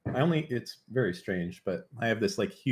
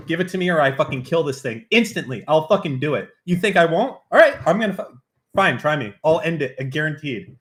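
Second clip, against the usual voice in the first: louder, higher, hammed-up menace toward chat; mock angry threat; 4 semitones higher, 6 dB louder than usual. Streamer threatens chat to get a link, mock furious. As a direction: play-act a furious ultimatum.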